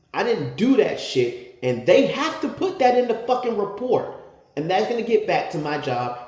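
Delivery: high, loud raging complaint; angry tirade. Retold or imitated. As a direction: vent your fury at her. Raging about his job.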